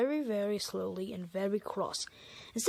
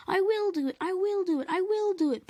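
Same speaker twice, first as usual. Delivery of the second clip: higher and louder, each will hit hard; puffing determined; 9 semitones higher, 5 dB louder than usual. Acted. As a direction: puff it out with grit. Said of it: "puffed Edward".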